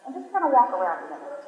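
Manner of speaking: softly coaching a volunteer, off mic; low-key instructions to the man holding the chains; quiet aside. Real, not acted. Preacher quietly guiding a volunteer carrying the chains, soft aside.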